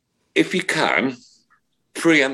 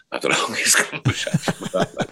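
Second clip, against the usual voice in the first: words half-laughed out; laughing; 2 semitones higher than usual. Real, not acted. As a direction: chuckle through the line at the memory. Laughing while recalling long chat.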